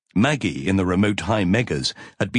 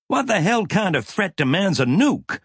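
growling; 12 semitones higher than usual. A narrator's reading. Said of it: "Mac growled".

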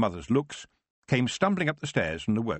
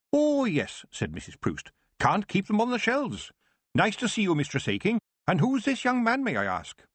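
high, bright-voiced old witch; old witch greeting a customer in a high voice; Missus Proust voice; 11 semitones higher than usual. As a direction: play the grand old shopkeeper witch, pitched up.

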